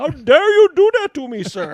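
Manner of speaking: shrill, very high, very loud screaming. Describing how an angry person sounds while reacting to a video: imitating an Indian person screaming. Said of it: "an Eastern Indian person is, like, screaming".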